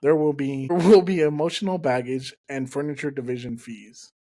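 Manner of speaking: customer service voice. Retold or imitated. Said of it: "she hit me with that customer service voice like".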